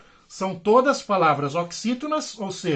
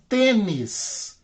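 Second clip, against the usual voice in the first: tênis with TÊ stretched and stressed; stress on penultimate syllable. Shown as a demonstration. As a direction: lean hard on the first syllable of tênis. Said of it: "A penúltima é a mais forte".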